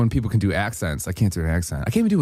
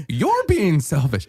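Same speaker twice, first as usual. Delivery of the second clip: slow, stretched-out comeback, raised pitch; retold retort; 6 semitones higher, much slower than usual. Driver answering the friend back, slow mock retort. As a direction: throw the accusation back, drawing it out. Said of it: "I go".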